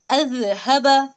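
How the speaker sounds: अजहबा said very slowly, each sound drawn out; slow it right down to अजहबा; corrected demo. Shown as a demonstration. Teacher correcting her own reading of अजहबा. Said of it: "no".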